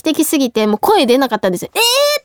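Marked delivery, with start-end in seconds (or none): 1.8-2.2 高く跳ね上がる驚きの声; 思わず出た驚きをなぞる; 驚きの叫び. Retold or imitated. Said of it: "とかも出ない衝撃で". (映画の衝撃に驚く声)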